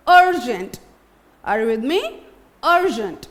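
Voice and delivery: अर्जेंट with a short a at the start; model word. Shown as a demonstration. To the class, a teacher models अर्जेंट. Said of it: "अ का जो sound आता है अर्जेंट".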